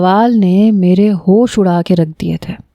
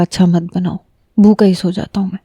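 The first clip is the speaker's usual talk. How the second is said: sulky husband; 3 semitones lower, faster than usual. Retold or imitated. Wife retells her husband's sulky reply, lightly voiced lower. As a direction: mutter it like a sulky man going to bed hungry.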